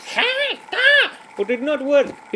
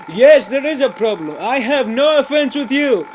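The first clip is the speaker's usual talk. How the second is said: chicken punchline; 4 semitones higher, 6 dB louder than usual. Acted.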